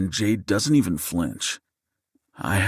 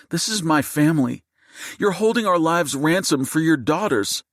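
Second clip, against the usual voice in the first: much higher, louder, seething wife facing a gunman; seething fury; 9 semitones higher, 3 dB louder than usual. Acted. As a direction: hurl the words at him, voice pitched way up. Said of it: "Jade's seething voice".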